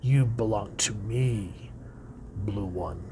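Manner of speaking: slow, possessive whisper; hiss-free, hushed claim of ownership; creepy whisper. Acted. Villain claims the blue lantern, creepy whisper.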